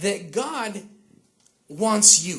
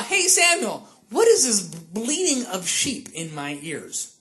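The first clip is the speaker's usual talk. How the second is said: sarcastic; slower than usual. Acted. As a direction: feign innocent puzzlement, lightly sarcastic. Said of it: "He's being sarcastic".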